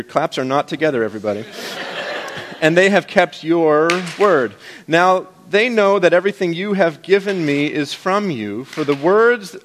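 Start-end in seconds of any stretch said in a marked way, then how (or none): 2.6-9.6 reading slowly. Shown as a demonstration. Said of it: "I'll read it slow so you can get your claps in".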